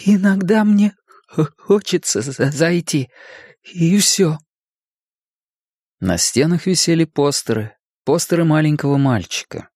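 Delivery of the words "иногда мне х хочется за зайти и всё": halting stammer with pauses; stuttering. A narrator's reading. Bill explains why he enters his brother's room, stuttering. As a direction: stick on consonants, then push the word out.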